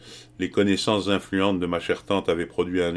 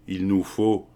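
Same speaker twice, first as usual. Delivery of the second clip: mildly declamatory opening; a touch of oratory; declaiming; 2 semitones higher, 3 dB louder, slower than usual. A narrator's reading. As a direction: begin a speech, lightly orated. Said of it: "se mit-il soudain à déclamer".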